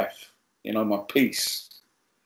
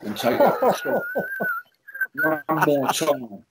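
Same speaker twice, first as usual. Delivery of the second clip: mock begging. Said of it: "Almost begging me".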